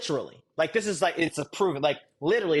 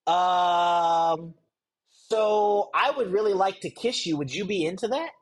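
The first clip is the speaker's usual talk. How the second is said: awkward formal ask; slower than usual. Retold or imitated. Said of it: "and be like".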